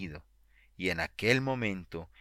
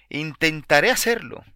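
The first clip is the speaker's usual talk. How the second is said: raised and much louder, straining with feeling; with great emotion; 6 semitones higher, 8 dB louder than usual. A narrator's reading. Anxious woman answering the preacher, voice surging with emotion. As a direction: blurt it out, overcome. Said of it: "dijo ella con gran emoción".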